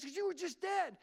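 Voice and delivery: high-pitched, exclaimed answer; imitating a stunned onlooker; incredulous reply. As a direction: blurt it out in mock disbelief. Incredulous answer to revived man.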